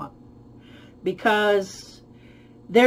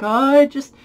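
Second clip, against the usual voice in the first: mock eager longing; 2 semitones higher, 5 dB louder than usual. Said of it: "sexual frenzy is kinda like".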